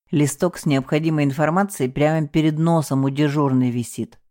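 ordinary delivery, nothing marked

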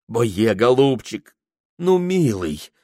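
gentle, slow coaxing; tender coaxing. Acted. Prokhor tenderly begging the Tungus. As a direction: coax him gently, like a child. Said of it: "нежно заговорил Прохор".

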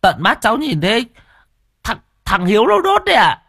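put-on scared child. A narrator's reading. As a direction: stammer out the blame like a scared kid. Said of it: "thấy ông Nghĩa nổi giận thì sợ lắm". (giọng trẻ con sợ hãi, lắp bắp)

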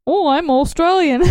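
lightly put-on Australian accent; mock Australian accent. Shown as a demonstration. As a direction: try an Australian accent for a laugh. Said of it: "Can you do Australian?".

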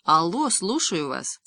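put-on slow, quavering old lady; trembling old woman's voice. A narrator's reading. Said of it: "старческий дребезжащий голосок".

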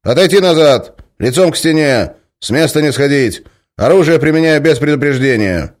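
loud, high drill-style orders; shouted commands. Acted. Guard shouts orders at the prisoner, loud. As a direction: bark each command.

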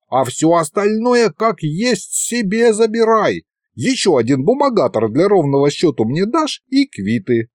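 put-on high-pitched wheedling old sorcerer; old ghost sorcerer, persuading. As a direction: talk a lad into your scheme. Voices old sorcerer proposing deal.

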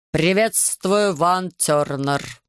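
slow machine voice through static; crackling device voice. Acted. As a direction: speak like a glitching gadget. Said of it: "сквозь свистящие помехи".

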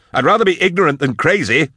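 high, heated retort; yelling. A narrator's reading. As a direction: throw the retort back loudly. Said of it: "he yelled".

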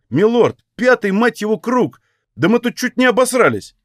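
high-pitched, agitated protest; worked-up commoner protesting; flustered excuse. A narrator's reading. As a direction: plead your case in a high, rattled voice. Scared man in crowd excuses himself.

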